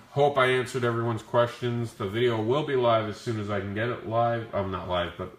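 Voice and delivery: growly flu voice, rough throat. Real, not acted. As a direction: talk through a growly sick throat. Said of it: "Sorry about the growly voice".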